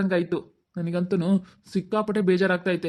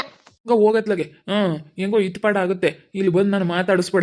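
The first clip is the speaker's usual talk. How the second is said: loud, raised voice, telling her off; angry outburst; 2 semitones higher, 5 dB louder than usual. Acted. Man angrily telling the woman not to talk to him, loud outburst. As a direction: snap at her to stop talking to you.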